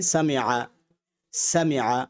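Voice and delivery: সামিআ said the Arabic way, with the ع sound at the end; teacher says সামিআ slowly in Arabic; Arabic pronunciation. Shown as a demonstration. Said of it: "আমি তারপর উচ্চারণটা দেখিয়ে দিচ্ছি". (আরবি উচ্চারণে সামিআ)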